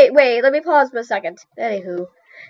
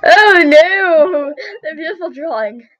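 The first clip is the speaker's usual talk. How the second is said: high, wailed lament; mock dismay; 4 semitones higher, slower than usual. Artist laments the beautiful drawing, mock dismay. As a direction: wail over it in mock tragedy.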